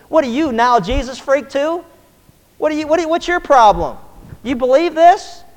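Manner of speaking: mocking bystanders jeer the believing thief; mocking taunt. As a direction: sneer at him.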